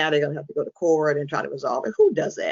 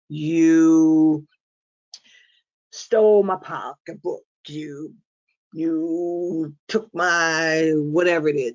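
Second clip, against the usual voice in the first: drawn-out accusing "you", slowly delivered; mock accusation; 3 dB louder, much slower than usual. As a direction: imitate someone slowly listing accusations. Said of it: "they accuse you of doing different things".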